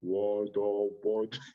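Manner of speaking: a slow, baffled mock of the rival. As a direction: drawl it out like a confused fool. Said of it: "He was like this".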